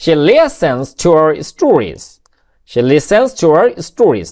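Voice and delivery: very slow, each word spaced out; dictating to students; slow dictation. Shown as a demonstration. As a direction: read it slowly for the class to copy. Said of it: "teacher dictating a sentence slowly".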